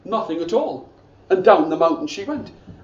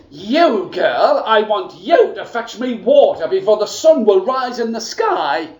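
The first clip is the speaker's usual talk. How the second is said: scratchy stepmother; 2 semitones higher, 5 dB louder than usual. Acted. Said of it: "this voice scratched in the air".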